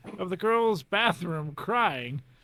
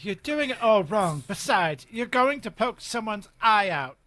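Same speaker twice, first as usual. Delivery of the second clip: lightly acted know-it-all correction; Hermione; 3 semitones higher than usual. Schoolgirl correcting her classmate's spell, lightly mimicked bossy schoolgirl. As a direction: correct a classmate, stressing the syllables. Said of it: "what does Hermione say in the movie".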